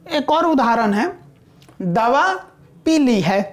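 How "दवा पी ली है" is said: "पी ली" को दो अलग शब्दों में, "दवा" के बाद रुककर; दो शब्द अलग करके. Shown as a demonstration. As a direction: say "पी ली" as two separate words, meaning drank. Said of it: "दवा पीने का काम हो गया है". ("पी" और "ली" अलग-अलग बोलें)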